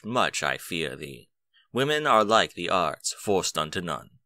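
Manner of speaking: slow, measured recital of verse; slow solemn poem recital; poem reading. Acted. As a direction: read it like an old elegy, slowly.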